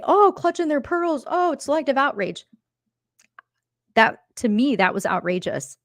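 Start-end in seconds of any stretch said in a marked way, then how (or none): 0.0-2.5 high, scoffing mimic of a dismissive rival; mock scoff, pitched up at the start; mocking sneer. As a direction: sneer it out like you're rolling your eyes. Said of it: "hear the speaker in this clip say".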